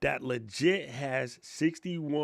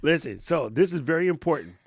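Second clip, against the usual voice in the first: whisper; 2 semitones higher, 6 dB louder than usual. Real, not acted. Urgent aside to guest.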